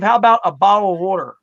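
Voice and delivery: "bottle of water" run together as bah-ul-a-wooder; Pennsylvania pronunciation. Shown as a demonstration. Guest demonstrating his own local speech, "bottle of water" slurred. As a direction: slur "bottle of water" the local way, t's dropped. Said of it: "That's what I say".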